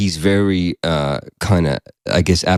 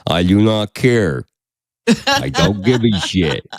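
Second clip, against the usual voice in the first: apathetic Bigfoot voice; slower than usual. Retold or imitated. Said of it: "we're just like".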